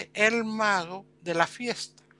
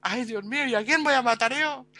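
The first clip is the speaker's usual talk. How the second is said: higher, fast relieved rush; relieved and fretting; 6 semitones higher than usual. Retold or imitated. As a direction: gush relief then worry. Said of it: "el Lord más contento". (alivio rápido, voz más aguda)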